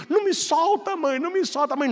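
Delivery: high panicked plea; terrified child. Retold or imitated. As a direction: cry out like a child being dragged. Child pulled by alligator. (criança apavorada, voz bem aguda)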